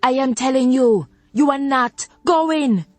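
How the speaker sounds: high, final-sounding Jamaican rebuke; stern Jamaican grandmother. Acted. Grandmother shutting down the therapy argument, stern Jamaican rebuke. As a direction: slam the door on the discussion.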